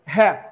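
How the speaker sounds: "ha" isolated as the stressed syllable of happiness; stressed first syllable. Shown as a demonstration. Teacher isolating the stressed first syllable. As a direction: say "ha" alone, firmly. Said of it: "stress falls on the first syllable".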